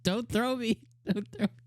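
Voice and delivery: retelling Usato begging Rose not to throw him, mock panic; mock panicked pleading. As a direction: plead like you're about to be tossed into the forest. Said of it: "He's like".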